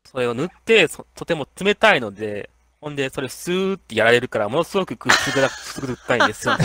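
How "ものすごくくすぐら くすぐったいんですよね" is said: laughing while telling. Retold or imitated.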